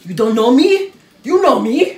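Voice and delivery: Sylvester Stallone. Acted. Actor asking if they know him, low mumbled impression. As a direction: mumble it low, expecting recognition. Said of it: "Sylvester Stallone".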